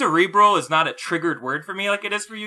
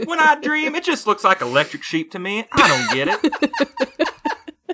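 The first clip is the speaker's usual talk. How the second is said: high, slow wistful robot; android voice; 9 semitones higher, slower than usual. Pretend. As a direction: wonder aloud like a lost android.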